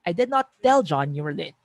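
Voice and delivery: I did not tell John with tell stressed. Shown as a demonstration. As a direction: lean on tell as if only implied. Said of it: "you're focusing on the idea na hindi ko naman talaga sinabi".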